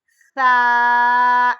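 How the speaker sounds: سا said loud but with a soft s, no whistle; soft سا with the tongue tip between the teeth; gentle سا, no hiss. Shown as a demonstration. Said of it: "یہ بھی نرم حرف ہے".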